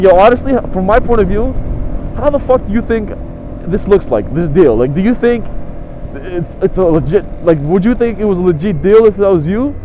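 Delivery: mildly angry challenge; pissed off. Retold or imitated. Buyer challenging the seller on the deal, annoyed. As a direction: press the point, irritated. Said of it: "I was so pissed and just angry".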